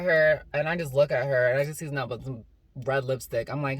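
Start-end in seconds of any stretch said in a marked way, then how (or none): none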